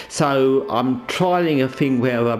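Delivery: muffled under a towel; towel over head. Real, not acted. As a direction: voice damped by a towel. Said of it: "I'm actually wearing a rather large towel over my head".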